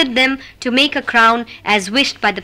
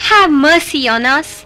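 begging; 3 semitones higher, 3 dB louder than usual. Acted. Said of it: "they all begged".

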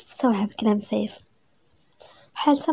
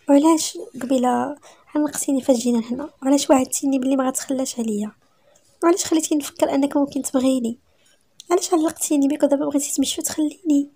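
higher-pitched, wounded questioning; hurt reproach; 4 semitones higher than usual. Acted. Tearful wife asks husband why he led her on, hurt reproach. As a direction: press him with hurt, pleading questions.

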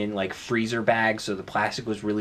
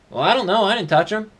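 defensive roommate; 9 semitones higher, 5 dB louder, faster than usual. Acted. Acted quarrel with roommate.

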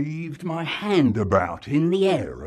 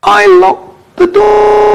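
weedy little voice; 19 dB louder, slower than usual. Acted. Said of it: "In a weedy little voice".

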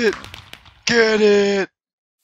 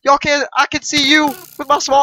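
hyped taunting; 4 semitones higher, 3 dB louder than usual. Real, not acted. Hyped taunting while escaping.

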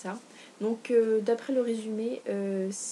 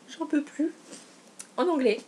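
gasp, then burst out high and loud; real thrill at the gift; breathless delight at the present; overjoyed gasp; 6 semitones higher, 5 dB louder than usual. Real, not acted. Gift reveal, gasps at tome three.

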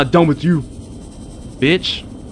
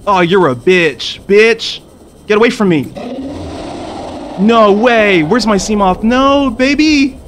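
high, loud cursing, the last slow and wailing; angry yelling; 8 semitones higher, 4 dB louder, slower than usual. Real, not acted. Gamer cursing creature wrecking his Seamoth, angry. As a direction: curse it out.

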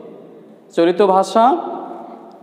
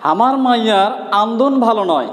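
Rangpur dialect; 2 semitones higher than usual. Shown as a demonstration. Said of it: "Rangpur অঞ্চলের আঞ্চলিক ভাষা যদি একটি কথা বলি".

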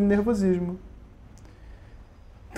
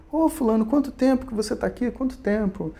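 higher, softer mock surprise at a friend; acted friendly greeting; 3 semitones higher, 5 dB quieter than usual. Greeting a friend met on a dream beach, mildly surprised. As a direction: lightly act out an unexpected reunion.

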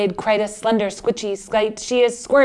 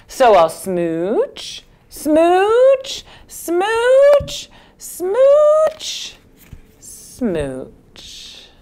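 smooches climbing ever higher; 11 semitones higher, much slower than usual. Acted. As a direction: sing the kisses up a ladder then drop.

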